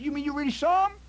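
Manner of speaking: high, strained astonishment; double-check in sheer disbelief; incredulous. Acted. Host checking the guest really saw the alligator, incredulous.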